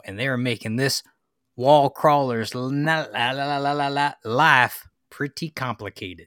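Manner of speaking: hammed-up Southern twang; put-on Southern accent. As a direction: carry on in a pretend Southern accent. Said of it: "not like his accent".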